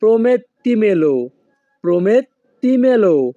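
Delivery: very slow, every syllable drawn out; slow teaching demo. Shown as a demonstration. Teacher to viewers, slow clear model word. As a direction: stretch the word for learners. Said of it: "এই বাক্যের Italian ভাষা হবে".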